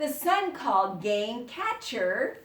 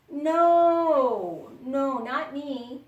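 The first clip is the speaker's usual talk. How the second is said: refusing; 3 semitones higher, 7 dB louder, much slower than usual. Acted. Son refusing the reward.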